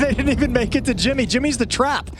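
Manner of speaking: high-pitched, laughing disbelief; laugh, then exclaim at the failed attack; amused disbelief. Real, not acted.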